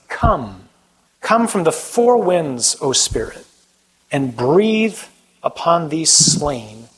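slow, solemn reading of scripture; scripture proclamation. Acted. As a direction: proclaim each phrase slowly as holy words.

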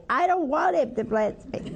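put-on high-pitched kid's refusal, half laughing; childhood protest. Retelling her childhood refusal to her mother, high mock protest. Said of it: "And I would say".

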